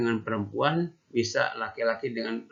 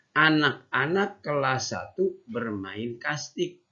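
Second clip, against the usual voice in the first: put-on reading to children; 3 semitones higher, slower than usual. Shown as a demonstration. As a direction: read each word clearly for little kids. Teacher reads story to class.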